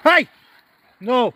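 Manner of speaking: shouted call. Real, not acted. Calling the dog off loudly.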